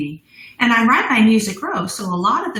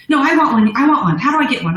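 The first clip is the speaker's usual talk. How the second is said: louder, pushy mock demand; insistent customer; 3 semitones higher, 5 dB louder, faster than usual. Retelling an Indianapolis customer asking the owner, insistent. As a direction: imitate a customer who won't take no.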